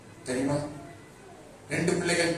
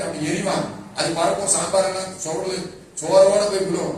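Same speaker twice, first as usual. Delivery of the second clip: father's rising lament; 4 semitones higher, 6 dB louder than usual. Retold or imitated. Father describes son's tantrums.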